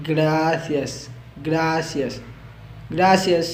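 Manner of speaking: "Gracias" with the tongue touched for the middle consonant; tongue-touched sound. Shown as a demonstration. Teacher drills thanks for learners, tongue placed carefully. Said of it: "यहाँ पर जबान लगा के".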